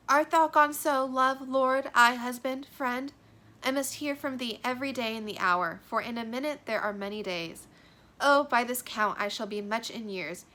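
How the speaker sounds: cling to him with every word; Juliet's parting plea. Acted. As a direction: lovesick girl reading her lines. Reading Juliet's lines aloud.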